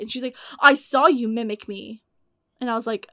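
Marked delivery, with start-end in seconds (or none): 0.6-2.0 louder mock-angry accusation; retold raging. Raging customer confronts the teen who mimicked her, mock outrage. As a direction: imitate an outraged customer, voice raised a little. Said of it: "she started raging, dude".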